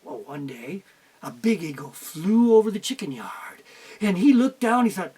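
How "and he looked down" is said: ordinary delivery, nothing marked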